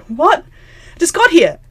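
high, loud mock protest; indignant surprise. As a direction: imitate someone caught off guard and objecting. Protesting that the party is over.

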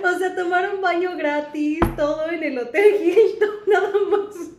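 frase riendo y más fuerte; ríete mientras lo dices; hablando entre risas. Real, not acted. Oyente ríe incrédula. (oyente riéndose de la anécdota)

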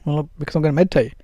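quick, offhand, obvious; breezy matter-of-fact answer; as if she should know. Shown as a demonstration. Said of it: "As if she should know".

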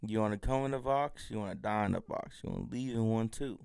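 words pushed out through clenched teeth; imitating a tough guy talking through his teeth; through gritted teeth. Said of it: "He just talks through his teeth. So he acts like this".

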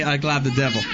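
Cajun accent. Shown as a demonstration. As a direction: say it like a Cajun mama. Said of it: "I need to have a mama say".

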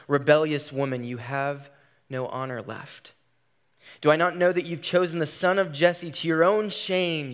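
voiced scripture reading with rising force; preaching scripture. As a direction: read Saul's curse with building anger. Preacher reads Saul's words.

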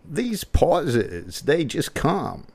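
lightly voiced Walken, slow halting; a hint of Walken, drawn out; Christopher Walken impression. Host demonstrating how hard Walken's accent is. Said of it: "how hard it is to do an accent".

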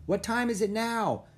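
urgent high-pitched query; calling out. A narrator's reading. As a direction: call the question across to the kids. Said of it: "Jack called".

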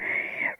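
hushed throat-scraping demon noise; demon growl. Retold or imitated. Friend imitating a mom's demon side, throaty growl. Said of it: "That really hurt my throat".

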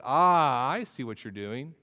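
loud drawn-out "Ah", then knowing; mock moment of discovery; playful teasing. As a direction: act out catching someone at their game. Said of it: "decided to have a little fun with her".

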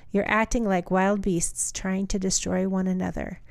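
measured reading aloud of a Bible passage; steady, deliberate Bible reading; scripture reading. Acted. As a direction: read the letter out evenly, phrase by phrase.

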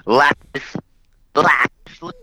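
choppy connection, words dropping; radio breaking up. Real, not acted. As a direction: voice cutting out mid-word. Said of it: "Chris is cutting out at the worst time".

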